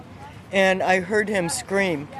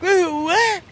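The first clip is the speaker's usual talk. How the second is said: much higher, baffled and surprised; 11 semitones higher than usual. Retold or imitated. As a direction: react in disbelief. Her baffled reaction retold.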